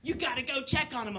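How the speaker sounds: worried mother. Acted. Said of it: "She's like".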